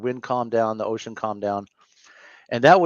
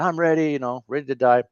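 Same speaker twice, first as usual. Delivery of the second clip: mock-dramatic surrender, pitched higher; hammed-up willingness to die; all dramatic; 3 semitones higher than usual. A man offering himself to God, hammed-up high surrender. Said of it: "All dramatic".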